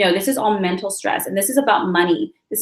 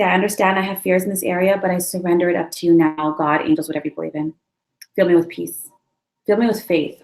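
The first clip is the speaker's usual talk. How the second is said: surrender prayer; 3 semitones lower than usual. Shown as a demonstration. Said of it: "close your eyes, let's take a deep breath".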